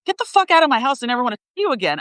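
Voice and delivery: high-pitched mock blow-up; retold angry outburst. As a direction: re-enact exploding at a partner, pitch jumping up. Retold outburst over the creamer.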